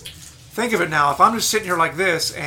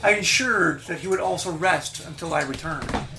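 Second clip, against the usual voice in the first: Medusa, high and proud; regal Medusa; 6 semitones higher, 3 dB quieter than usual. Acted. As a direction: purr it like a serpent queen. GM voices Medusa.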